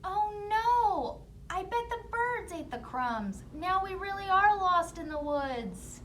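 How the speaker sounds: put-on high, loud dismayed kid; panicked child. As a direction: realize you're lost. Children discover lost.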